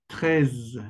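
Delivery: "Treize" with a dragged-out final z; French treize. Shown as a demonstration. Teacher showing students how to pronounce treize. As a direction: drag the z of "Treize". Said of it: "la forma en que ustedes deben de pronunciar es treize".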